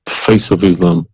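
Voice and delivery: tearful, halting, with heavy pauses; crying. Real, not acted. Caller defending his past faith to the host, crying. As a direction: push the words out through real tears. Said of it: "Oh, you are crying then".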